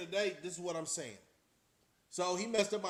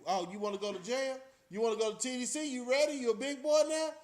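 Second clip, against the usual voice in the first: taunting drill sergeant; 5 semitones higher, 3 dB louder than usual. Retold or imitated. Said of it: "And then he was like".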